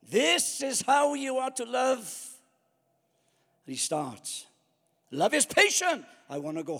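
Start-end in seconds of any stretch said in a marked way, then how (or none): 0.1-2.3 preachy quote. Retold or imitated. Mocking preacher quoting scripture. 5.1-6.0 high, loud preacher parody; preachy sing-song quote. Retold or imitated. Mocking preacher reading scripture.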